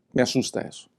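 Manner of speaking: breathy whisper, almost no voice; hushed confession. Real, not acted. Pastor admits to listeners, in a whisper, that it still scares him. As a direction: let it slip out as a whisper of fear.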